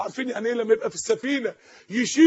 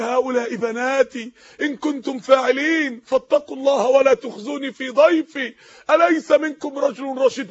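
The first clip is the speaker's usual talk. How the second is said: Quran recitation. Acted. Reciting Quran verses in sermon.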